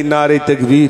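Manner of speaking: loud rising rally cry of তাকবীর; shouted call to the crowd; takbir call. Real, not acted. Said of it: "একটু তকবির দেন দেখি".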